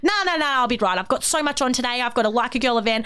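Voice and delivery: high, quick brush-off listing plans; breezy dismissive. Retold or imitated. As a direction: wave away the worry cheerfully. Brushing off friend's concern.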